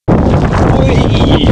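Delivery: high, loud joyful squeal; gleeful whee. Real, not acted. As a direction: squeal with delight in the wind. Blown around by the wind.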